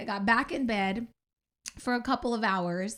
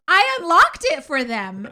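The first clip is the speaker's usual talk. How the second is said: quoting husband; 6 semitones higher, 10 dB louder than usual. Retold or imitated. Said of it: "And he goes".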